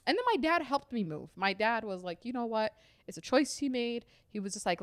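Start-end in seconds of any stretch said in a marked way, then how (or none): 2.2-4.1 softer, easygoing retold dad; dad's calm acceptance. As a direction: imitate an unfazed dad, quietly.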